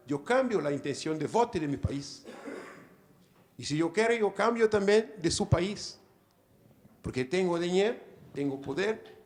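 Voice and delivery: Portuguese-accented Spanish; Spanish mixed with Portuguese words and sounds. Real, not acted. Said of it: "Me disculpe mi portuñol".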